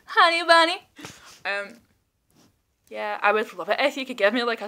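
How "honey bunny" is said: higher, cooing honey bunny; higher playful coo; sweet pet name. Shown as a demonstration. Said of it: "honey, honey".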